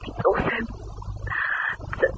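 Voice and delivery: a caller's voice coming down the line; over the phone. Acted. Woman heard over the telephone.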